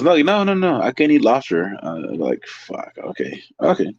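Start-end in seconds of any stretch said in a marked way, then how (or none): 0.0-1.8 high, exaggerated protest from the lady; hammed-up whiny refusal; mock insistent customer. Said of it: "She goes".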